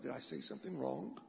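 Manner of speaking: sheepish hushed worry; hushed inner thought. Retold or imitated. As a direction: drop the voice as if thinking it. Inner thought after awkward silence.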